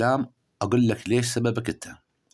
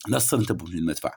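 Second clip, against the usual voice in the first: لا تصير أنت بوجه المدفع rattled off fast and softer, as a set saying; quick proverb quote; 5 semitones lower, 3 dB quieter, much faster than usual. Shown as a demonstration. Astrologer quotes the local proverb, fast and softer. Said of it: "هذا المثل عندنا مقيول".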